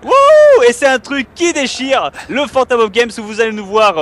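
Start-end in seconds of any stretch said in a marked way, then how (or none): 0.0-0.6 high, loud whoop of joy; excited whoop. Real, not acted. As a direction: let out a big whoop. Celebrating the new channel.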